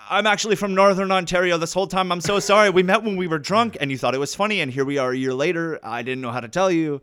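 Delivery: high, loud acted blurting; panicked confession. Actor confessing a lie to stage girlfriend, panicked blurting.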